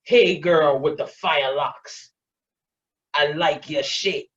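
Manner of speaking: low, drawn-out catcall; slow, leering street catcall; a leering man calling out slowly from across the street. Retold or imitated. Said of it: "and the voice is like".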